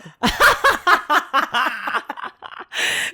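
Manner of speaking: loud burst of laughter; long laugh. Real, not acted. Laughing at buying piano.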